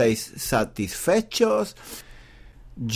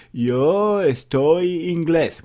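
mock learner mistake; much slower than usual. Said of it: "Cometen errores".

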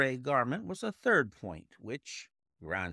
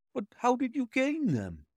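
eager Watson; 13 semitones higher, 4 dB louder than usual. A narrator's reading.

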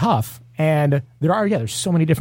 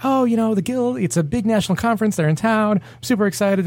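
bright, higher, gushing reply; eager excitement; 8 semitones higher than usual. Retold or imitated. A bartender eagerly explaining his sign to the police officer, gushing. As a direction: sell the officer on the banner with eager enthusiasm.

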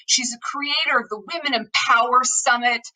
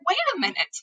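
put-on higher-pitched, puzzled young boy; confused child; 7 semitones higher, faster than usual. Younger son stops and looks at mom, confused. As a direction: imitate a puzzled kid interrupting. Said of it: "all confused".

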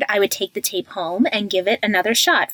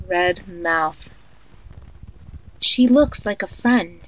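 sleep story narrator. Acted. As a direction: lull a child to sleep, eerily calm. Creepy tape of guided sleep meditation.

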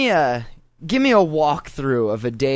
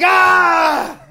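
loud high zombie groan; 7 dB louder than usual. Retold or imitated. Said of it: "I sound like a zombie".

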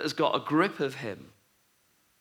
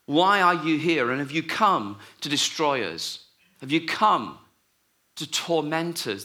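mock scream; 4 dB louder than usual. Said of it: "screaming at him".

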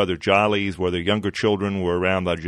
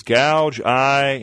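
sudden higher, louder frustrated burst; frustrated outburst; 6 semitones higher, 4 dB louder than usual. A narrator's reading. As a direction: blurt it out, about to lose his temper. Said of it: "Captain Marvel is so frustrated".

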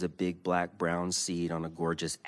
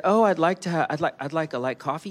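retold order; 10 semitones higher, 6 dB louder, faster than usual. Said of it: "And I said".

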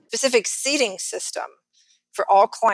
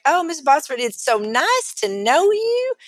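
higher, slow, drawn-out mock greeting; gushing pool guy; 6 semitones higher, slower than usual. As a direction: imitate an over-friendly salesman's hello. Imitates gushing Texas pool guy.

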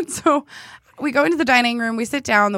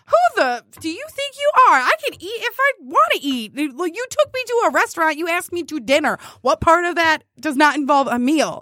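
angry inner retort; 4 semitones higher than usual. Retold or imitated. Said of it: "inside of me says all of this angry".

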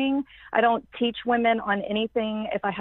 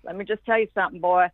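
lightly voiced Southern dad; imitating a father's Southern accent. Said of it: "my dad has this strong Southern accent".

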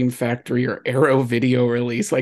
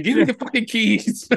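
mock threat, laughing; 9 semitones higher than usual. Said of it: "the Usual Suspects line saying".

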